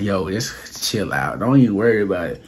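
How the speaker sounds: low, soft, easy reassurance; calming down. Retold or imitated. Telling a worked-up cousin to chill, calming and low. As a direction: talk someone down, quietly. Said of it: "I'm trying to calm my cousin down".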